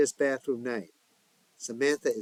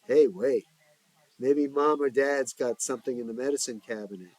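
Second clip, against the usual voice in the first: sudden smile; 2 semitones higher, 5 dB louder than usual. Acted. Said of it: "with a sudden smile".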